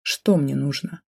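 slow, mocking repeat. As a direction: sneer the question back. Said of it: "издевательски повторил он".

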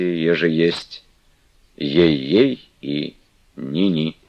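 громче, веско, требуя клятвы; как заклинание; торжественная игуменья. Acted. (Манефа требует от Флёнушки клятвы, сурово)

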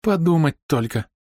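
high, slow tearful lament; moaning in tears. A narrator's reading. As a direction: moan it through sobs. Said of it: "стонала Ида". (стонет сквозь слёзы)

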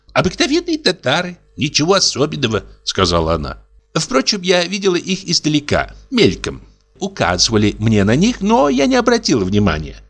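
put-on chatty young wife. Wife answers dismissively.

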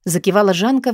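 usual speaking voice

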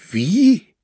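high, loud, sharp challenge; threatening. A narrator's reading. Linzmann reacts to being blamed, threatening. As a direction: challenge her with a threatening question. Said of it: "sagte dieser drohend".

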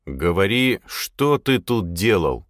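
ordinary delivery

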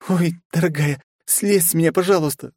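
high pleading plea to be let go; high plaintive begging. Acted. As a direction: beg to be released, high. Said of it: "взмолилась княжна".

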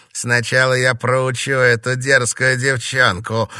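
hissing anger, only lightly done; hissed threat. A narrator's reading. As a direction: spit out the threat through irritation. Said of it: "прошипел Эмиль".

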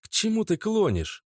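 high and edgy; girlfriend starting to boil. A narrator's reading. Natasha demands of Oleg, growing irritated. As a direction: press him, irritated. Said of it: "Наташа начинала закипать".

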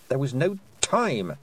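plain reading voice

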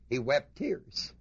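slow, with weight landing on "tears"; deliberate, slowed stress on "tears"; slow emphasis. Acted. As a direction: lean on "tears", draw the line out. Preacher insists on real tears.

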